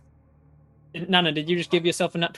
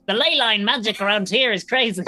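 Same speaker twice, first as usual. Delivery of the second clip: mock ogre voice; 5 semitones higher, 5 dB louder than usual. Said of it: "and be like".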